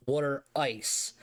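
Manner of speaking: slow Philly "water ice" with a rounded "aw", like "wooder ice"; Philly accent. Shown as a demonstration. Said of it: "We say water".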